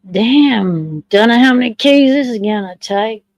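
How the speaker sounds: put-on a slipped-in American accent on the exclamation; a casual American accent, said without meaning to. Vlogger reacting to how many keys the mosaic needs, in an American accent. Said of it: "Not meant to say it in an American accent".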